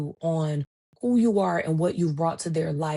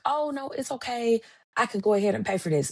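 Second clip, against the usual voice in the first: eager offer; 5 semitones higher, faster than usual. Retold or imitated. Offering to pay, retold.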